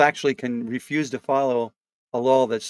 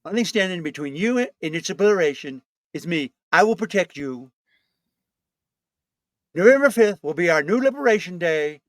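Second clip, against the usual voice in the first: Trump rally voice. Acted.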